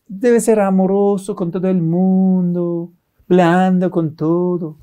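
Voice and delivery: mocking, lingering singsong; mock soppy advice. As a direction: parody a meek do-gooder, stretching the words. Parodies advice to be soft with everyone.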